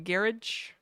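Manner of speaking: "garage" as "GARRIDGE", said softly; soft British "garage", GARR-idge; British pronunciation. Shown as a demonstration. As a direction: quietly try "garage" rhyming with "carriage". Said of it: "Brits say".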